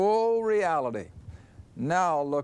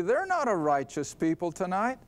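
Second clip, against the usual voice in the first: ordinary talk, nothing marked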